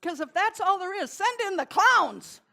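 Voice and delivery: big, high, belted declaration; loud punch line. Real, not acted. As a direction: call it out to the whole hall. Punch line after the song.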